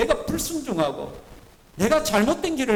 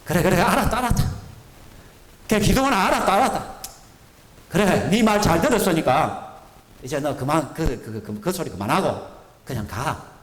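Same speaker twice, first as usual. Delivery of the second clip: impatient God; 3 semitones lower than usual. Retold or imitated. The preacher as God, impatient and dismissive. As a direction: hurry him along, tired of hearing it. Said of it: "제가 같으면".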